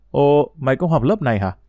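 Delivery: surprised. Acted. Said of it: "Giọng của nó tỏ ra ngạc nhiên".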